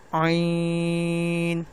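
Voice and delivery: عین held very long from the throat; drawn-out letter. Shown as a demonstration. Teacher reciting عین slowly for students. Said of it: "عین کو اور نون کی تک آواز کو ختم کرنا ہے".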